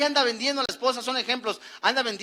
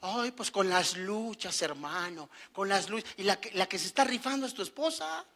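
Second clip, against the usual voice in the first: whiny churchgoer; 2 semitones lower, 7 dB quieter than usual. Retold or imitated. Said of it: "Y llega a la iglesia".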